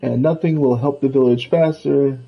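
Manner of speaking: lightly voiced Scrooge. Scrooge tells the player about the village, lightly voiced. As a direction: lightly play the grumbling old money duck.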